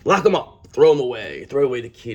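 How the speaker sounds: lightly voiced mock outrage; a hint of a hostile rival; mock Queen of Swords. Rival demanding the Empress be locked up, mild mock outrage. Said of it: "That's what the Queen of Swords in reverse would say".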